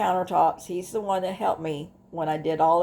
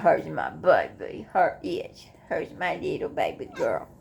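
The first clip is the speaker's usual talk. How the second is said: softer loving coo; cooing to her cat; 4 semitones lower, 4 dB quieter than usual. Real, not acted.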